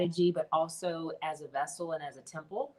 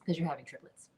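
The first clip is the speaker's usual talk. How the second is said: hushed news; faster than usual. Retold or imitated. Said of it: "she goes".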